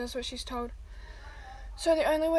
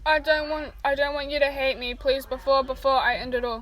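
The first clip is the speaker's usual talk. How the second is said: pleading; 5 dB louder than usual. Acted. Ray begging not to be hated.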